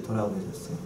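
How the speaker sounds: quiet echo of 돌아보셨어요; soft echo of 돌아보셨어요. Shown as a demonstration. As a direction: let 돌아보셨어요 fade to a hush. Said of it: "돌아봤다는 데다가 동그라미를 치셔요".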